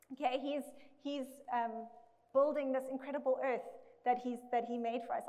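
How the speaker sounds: echoey room sound; big hall echo. Real, not acted. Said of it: "I sound very echoey".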